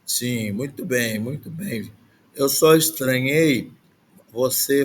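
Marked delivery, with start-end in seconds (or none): none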